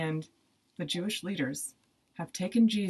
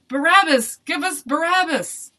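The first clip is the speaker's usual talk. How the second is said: crowd shouting; 10 semitones higher, 10 dB louder than usual. A narrator's reading. Crowd demands Barabbas from Pilate, shouting. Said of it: "the crowd shouted".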